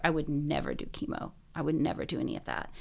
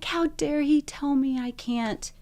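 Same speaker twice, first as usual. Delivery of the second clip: angry; 3 semitones higher than usual. Retold or imitated. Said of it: "so mad".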